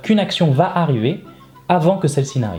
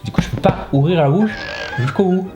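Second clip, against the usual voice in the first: talking with a numb, anesthetized mouth. Real, not acted. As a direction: speak like the dentist's shot hasn't worn off. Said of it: "il m'a anesthésié".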